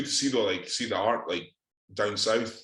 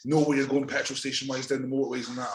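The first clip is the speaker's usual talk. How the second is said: higher fussing mum impression, mock; 4 semitones higher, faster than usual. Mocking mum's warning before the Birmingham drive, higher nag. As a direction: nag like a worried mum, pitched up. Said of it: "My mum was like".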